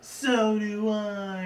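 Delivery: a pony going strangely agreeable; dreamy Rarity. Retold or imitated. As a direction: stretch it out like you're under a spell. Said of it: "she says".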